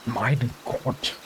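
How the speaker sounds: mock German exclamation; German accent. Player priming an accent for a character, mock German. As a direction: try a hammed-up German accent. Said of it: "do a German accent".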